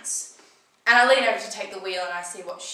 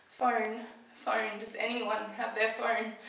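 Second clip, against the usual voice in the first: dazed; 3 semitones higher, 5 dB quieter, slower than usual. Acted. Dazed after crash, asks for phone.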